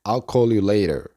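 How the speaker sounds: "I'll call you later" with tapped T in "later"; teacher models "I'll call you later"; linked model pronunciation. Shown as a demonstration. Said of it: "la oración completa se pronuncia". ("I'll call you later" enlazado, T como R suave)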